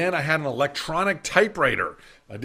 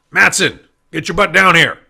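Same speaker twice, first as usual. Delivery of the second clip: loud barking order on the phone; mock angry summons; 4 semitones higher, 12 dB louder than usual. Client phones the salesman pretending anger, loud bark. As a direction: pretend to be furious, summoning him.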